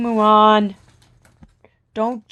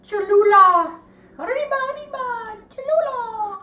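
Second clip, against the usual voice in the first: high, fast cartoon Mexican accent; hammed-up Mexican accent, high and quick; mock Mexican accent; 14 semitones higher, 4 dB louder than usual.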